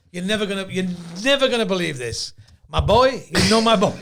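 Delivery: lightly mimicked Jewish father in a joke; Fievel Mauschwitz. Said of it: "You sound like Fievel Mauschwitz".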